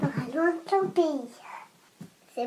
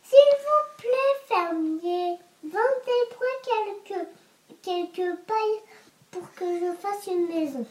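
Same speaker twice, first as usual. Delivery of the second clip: little pig voice. Acted. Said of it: "J'aime bien quand tu fais le cochon".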